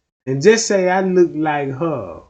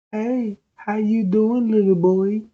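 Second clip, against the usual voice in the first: creepy come-on act; 6 semitones higher than usual. Acted. Put-on stranger luring a little boy, creepy come-on. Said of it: "This me trying to holler at a, a, a, a little boy".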